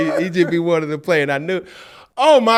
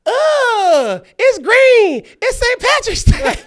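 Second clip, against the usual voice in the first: laughing disbelief; 11 dB louder, much slower than usual. Retold or imitated. Dad reacting to the poop.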